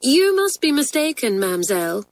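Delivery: high start dropping to grave. A narrator's reading. Pupil gravely telling the French teacher she's mistaken, grave. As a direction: correct her gravely. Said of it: "said Doris gravely".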